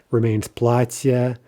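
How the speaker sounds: платье kept with stress on the first syllable, slowly; unchanged stress. Shown as a demonstration. Teacher showing a word where stress stays. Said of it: "the stress doesn't shift".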